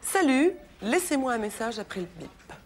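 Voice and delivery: imitating answering machine greeting. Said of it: "je vous le fais, ça donne".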